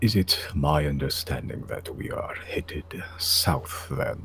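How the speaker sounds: deep, soft, guttural ancient dragon voice. Right after announcing the voice, speaking to the group: deep guttural ancient dragon voice. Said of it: "in a deep, guttural, uh, ancient white dragon like voice".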